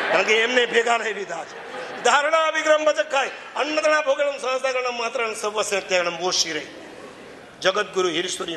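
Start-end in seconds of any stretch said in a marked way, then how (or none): 2.0-6.7 higher, intoned recitation of a Sanskrit vow; ritual recitation. Acted. Preacher reciting the renunciation vow to the congregation, intoned. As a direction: chant the vow formula steadily.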